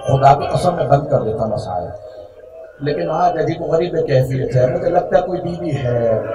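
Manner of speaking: quiet grief-stricken aside. Real, not acted. Soft-spoken aside to mourners.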